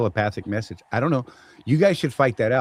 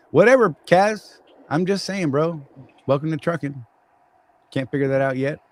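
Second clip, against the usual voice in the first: teasing dismissal; 4 semitones higher, 3 dB louder than usual. Real, not acted. Host ribs a newbie trucker over fuel pumps, teasing dismissal. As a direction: needle the newbie in a raised, mocking pitch.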